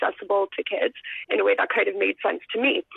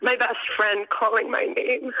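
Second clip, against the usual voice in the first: emotional; 2 semitones higher than usual. Real, not acted. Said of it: "I'm gonna get emotional talking about this".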